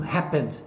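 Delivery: "happened," with the ED ending said softly, unstressed. Shown as a demonstration. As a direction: keep the ED of "happened," light and closed. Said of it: "então ele vai sempre suavezinho". ("happened," com o ED suave e fechado)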